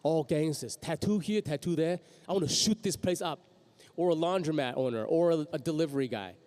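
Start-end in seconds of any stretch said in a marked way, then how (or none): 0.0-0.8 lightly voiced gangster. Voice actor mocking typecast roles, light gangster voice. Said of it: "gangsters that talk like this". 0.8-3.4 lightly voiced gangster, slightly raised. Voice actor mocking typecast roles, light gangster voice. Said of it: "gangsters that talk like this".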